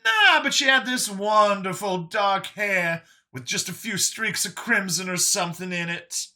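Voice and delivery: very high surprise easing into fond description; Brian, puzzled then admiring. Acted. Brian describing Catherine to Vincent, high and animated. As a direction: start high and baffled, then ease off.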